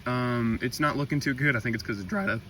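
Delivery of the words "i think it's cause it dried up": voice crack. Real, not acted. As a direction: voice cracks on the last word. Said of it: "that voice crack".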